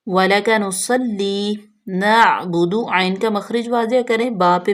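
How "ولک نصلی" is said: drawn-out recitation, very slow and clear. Shown as a demonstration. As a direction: stretch each syllable like teaching recitation. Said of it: "teacher models recitation". (بہت آہستہ تلاوت)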